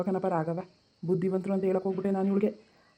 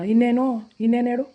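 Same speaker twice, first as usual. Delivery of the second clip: higher and louder, snapping back; raised voice in a marital quarrel; angry outburst; 5 semitones higher, 5 dB louder than usual. Acted. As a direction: lose patience with her. Husband flares up in quarrel.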